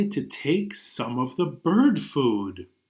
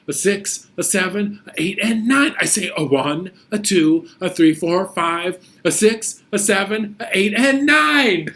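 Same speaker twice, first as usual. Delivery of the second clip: building count; 5 semitones higher, 4 dB louder than usual. Acted. Teacher counting with kids, getting excited. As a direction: count climbing higher and louder.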